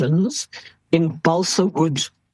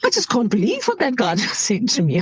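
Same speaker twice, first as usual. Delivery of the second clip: higher, laughing through the words; laughing disbelief; 7 semitones higher than usual. Retold or imitated. Doctor telling the nurse about the rude call, laughing in disbelief. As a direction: laugh at how absurd it was. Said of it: "I was like".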